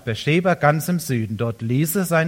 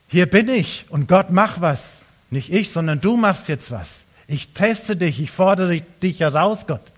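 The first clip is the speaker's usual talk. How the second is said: bold challenge to God; 5 semitones higher, 5 dB louder than usual. Retold or imitated. Elia challenging God boldly.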